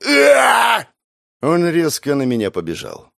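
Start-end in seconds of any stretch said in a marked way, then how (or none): 0.1-0.9 high loud war cry; charging battle cry. Acted. Bandit charges at the narrator, battle cry. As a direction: roar as you charge.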